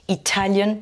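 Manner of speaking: Italian, TA emphasised; stress on second syllable. Shown as a demonstration. Teacher recapping for learners, stress on TA in Italian. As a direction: hit the TA in Italian. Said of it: "deuxième syllabe".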